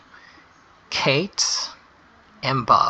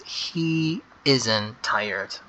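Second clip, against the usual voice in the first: drawn out word by word for the class; teacher repeating the answer, very slow; very slow dictation; much slower than usual. Shown as a demonstration. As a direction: stretch every word as if writing it. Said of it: "make sure to start with the big H".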